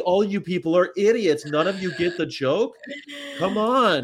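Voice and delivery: mock exasperation. Comic scolding the people who missed his joke, mock exasperation. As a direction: scold them in mock disbelief.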